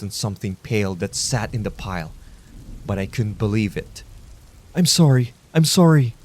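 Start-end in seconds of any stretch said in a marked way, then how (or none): 4.7-6.1 between dry heaves. Acted. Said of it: "in between dry heaves".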